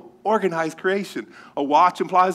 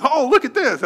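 higher-pitched, lightly mock excitement; excited kid; 8 semitones higher, 4 dB louder than usual. Boy showing his brothers a burning marshmallow, excited. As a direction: call it out like a thrilled kid.

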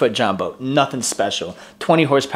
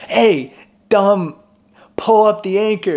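much higher, loud "pull up the anchor" shout; yelled order; 9 semitones higher, 3 dB louder, slower than usual. Retold or imitated. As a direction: bark it across the water at the buddies. Cop yells at the buddies.

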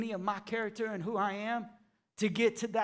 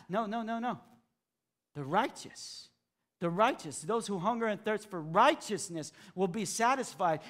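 gentle correction; 3 dB quieter than usual. Real, not acted.

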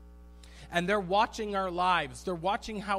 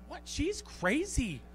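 mock tattling sibling; 5 semitones higher than usual. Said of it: "I'm like".

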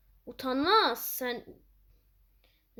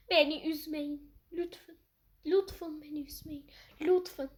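weird pleading voice; 4 semitones higher than usual. Pretend. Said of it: "Çok garip konuştum ya".

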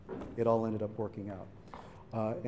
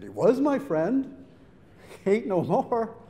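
defiant retort; 10 semitones higher, 8 dB louder than usual. Retold or imitated. Angry retort to dad, laughing.

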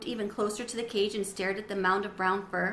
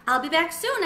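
squeaky hamster voice; 7 semitones higher, 5 dB louder than usual. Acted. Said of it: "I squeaked".

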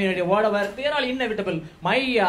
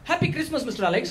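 Tambram uncle voice; 5 semitones higher than usual. Retold or imitated. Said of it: "Then he said".

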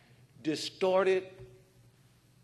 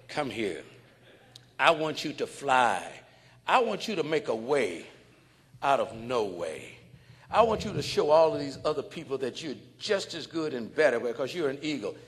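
tender urging; 4 semitones lower than usual. Retold or imitated. The man gently urging the bird to fly. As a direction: lift him up gently.

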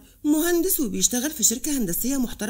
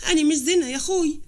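higher, more insistent appeal; distressed plea; 4 semitones higher, 3 dB louder than usual. Acted. Thrown-out sister tells her brother she is not well, pleading. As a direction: plead with mild distress, raising the pitch.

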